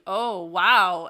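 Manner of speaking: a loud, impressed gasp of wow; amazed wow. Retold or imitated. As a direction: react like you just saw a great move.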